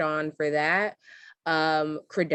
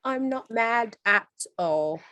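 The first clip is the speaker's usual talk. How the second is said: higher and louder, sassy and fast; not mad at it, loud and sassy; sassy mock defiance; 8 semitones higher, 5 dB louder than usual. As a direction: tease her with mock sass.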